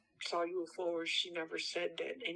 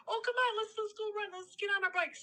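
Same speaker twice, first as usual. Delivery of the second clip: brother urging; 11 semitones higher, faster than usual. Retold or imitated. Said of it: "I hear my brother".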